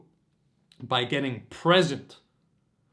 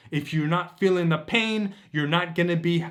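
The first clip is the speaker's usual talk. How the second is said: ordinary talk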